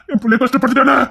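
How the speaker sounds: hammed-up grieving father; mock wail. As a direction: lament it theatrically. Lament repeated higher.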